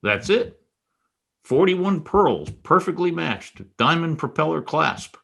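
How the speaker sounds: light up as you spot the pearls; eager recognition. Acted. Recognizing the stolen necklace.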